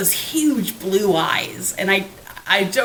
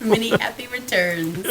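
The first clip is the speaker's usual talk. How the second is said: lightly echoed mock Cockney; Cockney accent; 3 semitones higher than usual. Co-host echoing the birthday message, in light Cockney. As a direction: playfully copy the Cockney greeting with a laugh after. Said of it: "in full Cockney, as, as she would say it".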